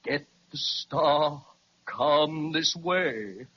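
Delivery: slow, hypnotic luring voice; a slow, luring whisper of a voice in his ear; mysterious voice. Retold or imitated. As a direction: pull him along like a spell. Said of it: "A voice kept repeating".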